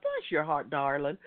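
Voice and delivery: a light imitation of her gentle endearment, "darling" lifting; mild impression of a gracious actress; imitating Dee Wallace. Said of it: "That's how she talked".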